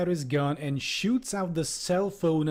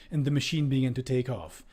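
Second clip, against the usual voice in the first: ordinary talk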